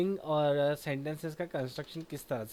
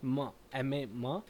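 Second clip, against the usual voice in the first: slow spelling out; much slower than usual. Shown as a demonstration. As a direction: spell each letter slowly. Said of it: "spelling कैसे करेंगे".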